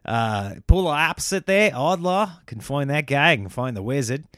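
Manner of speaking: put-on light, half-hearted Australian accent; a passing stab at an Australian accent. Comedian switching to Australian accent on the podcast. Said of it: "I'm now Australian".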